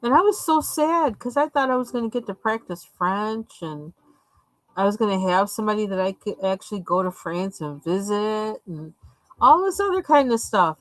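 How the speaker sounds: ordinary talk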